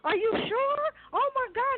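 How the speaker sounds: high-pitched disbelief on the phone; imitating a stunned mother; shocked mother. Acts out mother getting alarming call.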